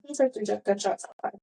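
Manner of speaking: composed re-enacted report; unruffled deadpan; calm, matter-of-fact. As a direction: repeat the news without any alarm. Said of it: "Literally said it just like that".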